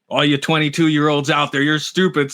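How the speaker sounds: mock old man. Host mocking himself to young listeners, lightly voiced old man. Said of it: "says the old man".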